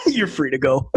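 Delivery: repeating it through laughter; laughing. Retold or imitated. Retelling the cop letting him go, laughing. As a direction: chuckle through the cop's words.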